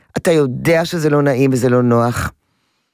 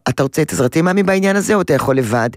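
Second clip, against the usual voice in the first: calm gentle offer. Shown as a demonstration. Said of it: "את מסתכלת עליו ואת אומרת לו".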